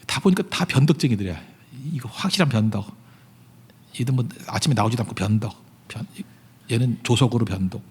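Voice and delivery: ordinary delivery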